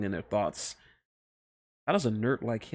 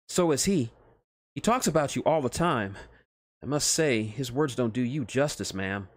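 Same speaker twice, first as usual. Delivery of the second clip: higher, eager, flustered scientist; a lightly higher nervous nerd; nervous Otacon voice; 3 semitones higher than usual. Acted. Scientist flustered meeting Snake's friends, higher nervous voice.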